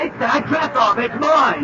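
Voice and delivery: high crazed yelling; frantic shouting. Acted. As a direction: yell like a madman. Man demanding the dress.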